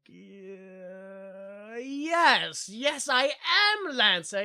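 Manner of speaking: long hesitant start, then slow affirmation; stall, then overdo the confirmation; unconvincing bluff. Retold or imitated. Lancer confirms his name to a stranger, mock unconvincing.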